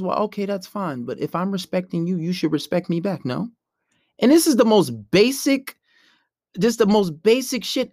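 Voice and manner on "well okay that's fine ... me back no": mild, reasonable pushback; composed, unexcited reply; calm tone. Shown as a demonstration. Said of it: "you wanna keep a calm tone".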